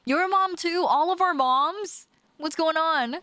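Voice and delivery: high, loud disbelieving cries; can't believe it, all of them; surprised disbelief. Real, not acted. Streamer reacting to chat's moms too, loud high disbelief. More chat moms use AI books.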